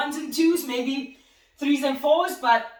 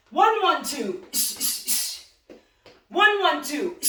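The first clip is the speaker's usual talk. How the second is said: shouted counts; 2 semitones higher, slower than usual. Shown as a demonstration. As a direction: bark each count out to the class. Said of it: "ready, and let's go".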